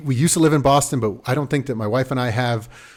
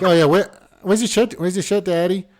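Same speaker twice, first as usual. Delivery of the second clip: high mock Boston toddler, R's dropped; playful high-pitched New York-Boston child impression; dropped-R kid accent; 7 semitones higher, 4 dB louder than usual. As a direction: imitate a nosy little kid with a New England accent. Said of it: "something about dropping the R's".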